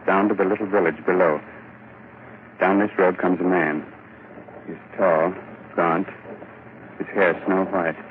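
dark radio narration; story narration. A narrator's reading. Host narrates the scene.

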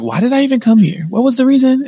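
exasperated mock outburst. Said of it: "I'm like".

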